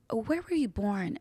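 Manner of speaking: soft, slow, careful question; gentle. Retold or imitated. Teacher gently questioning a pupil after class, gentle. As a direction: ask it softly and slowly, treading carefully. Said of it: "she was very gentle with me".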